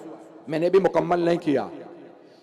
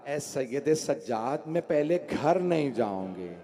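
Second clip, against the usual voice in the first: hushed grieving voice; 3 semitones lower, 5 dB quieter than usual. Acted. Zainab voiced speaking to nephew.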